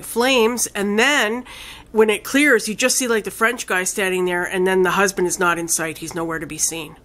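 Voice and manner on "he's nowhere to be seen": breathy whispered reveal; hushed, awed whisper. Real, not acted. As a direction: drop to a whisper for the ending. Hushed end of film retelling.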